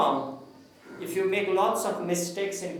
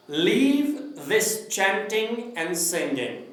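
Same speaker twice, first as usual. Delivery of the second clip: slow, drawn-out reading of a poem's title; poem recitation; slower than usual. Shown as a demonstration. Teacher shows class how to recite a poem, slow recital. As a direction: recite it slowly, lingering on each word. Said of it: "I will recite it first".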